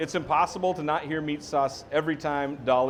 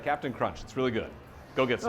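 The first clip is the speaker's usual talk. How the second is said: low-key, lower-pitched ad read; boring, straightforward; 3 semitones lower, 4 dB quieter than usual. Acted. Host showing how dully they would plug cereal, boring straightforward read. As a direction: undersell it, plain and dull. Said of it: "I'm too boring and I'm too straightforward".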